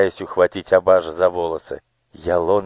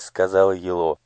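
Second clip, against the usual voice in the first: plain reading voice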